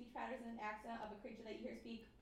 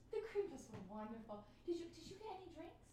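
high class lady; 5 semitones higher than usual. Pretend. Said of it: "High class lady".

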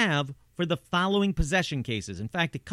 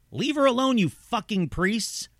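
demonic shout; 4 semitones higher than usual. Retold or imitated. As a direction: bark it out like a demon at the priests. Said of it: "the guttural voice shouted".

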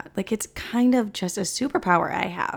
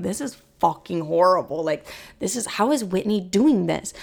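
frustrated groan. Retold or imitated. Hating the workouts.

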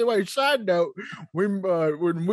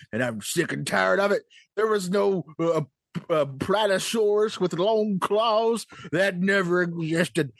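put-on old prospector.

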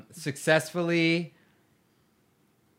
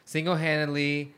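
dictating. Shown as a demonstration. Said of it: "what did she say?".

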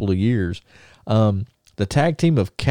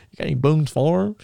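lightly imitated Alabama twang, higher pitch; Alabama accent; 5 semitones higher than usual. Host repeats wrestler's wine question in imitated Alabama accent. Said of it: "he's talking in an Alabama accent".

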